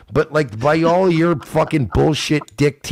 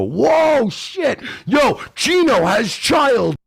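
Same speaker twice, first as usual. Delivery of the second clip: mock shock; 12 semitones higher, much slower than usual. Mocking viewers shocked by a dull reveal. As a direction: ham up the shocked gasp.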